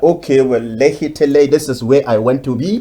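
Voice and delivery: a hint of a fussy voice, pitched a bit up; mock self-talk. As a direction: lightly act out the little pep talk. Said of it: "Can you imagine the switch".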